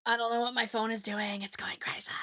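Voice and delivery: hushed, puzzled whisper. Real, not acted. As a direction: whisper it to yourself. Whispered aside about phone.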